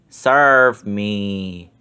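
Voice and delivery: low, commanding villain voice. A narrator's reading. Ben orders the witch's ghost, low commanding voice. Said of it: "Ben commanded".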